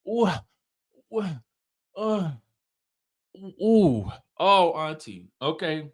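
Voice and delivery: drawn-out stunned oohs; shocked ooh. Retold or imitated. Watching the screen, stunned by Auntie: shocked ooh. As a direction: gasp it out like you can't believe what you heard. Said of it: "I'm like".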